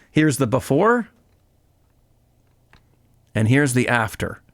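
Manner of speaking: salesy TV pitch reveal; infomercial voice. Acted. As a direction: announce it like a TV ad. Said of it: "I sound like an infomercial".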